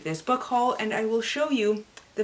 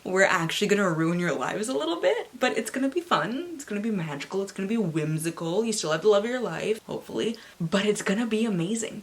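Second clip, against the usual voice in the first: cheeky magic voice; faster than usual. Retold or imitated. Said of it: "they're like".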